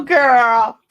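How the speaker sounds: loud squealing retold shout, half crying out; excited scream. She retells screaming her age back at the lady, loud and excited. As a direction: scream it in happy disbelief. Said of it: "Then I start screaming".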